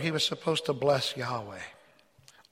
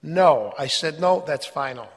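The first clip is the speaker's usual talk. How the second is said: firm parental no; 2 semitones lower, 5 dB louder than usual. Retold or imitated. Parent refusing children.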